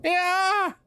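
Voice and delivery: high, loud whoop; yelling into the canyon for an echo; sudden loud yell. Acted. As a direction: bellow it to wake the canyon. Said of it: "T J lets out a sudden loud yell".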